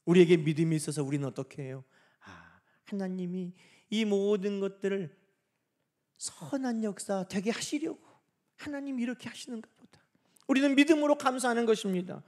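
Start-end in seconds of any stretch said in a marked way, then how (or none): 2.2-10.0 soft, musing acceptance; hushed inner realisation; trusting reflection. Acted. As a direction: think it aloud gently, coming to trust.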